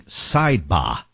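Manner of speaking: slow Boston "Sidebar" with no R; Boston accent. Retold or imitated. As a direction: drop the R: "sidebah". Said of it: "in his Boston accent".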